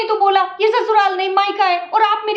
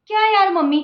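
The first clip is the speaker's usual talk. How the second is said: higher, petulant whining; whiny complaining; 3 semitones higher than usual. Acted. Spoiled daughter-in-law whining about the hot sun to her mother-in-law. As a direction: whine like a spoiled bride.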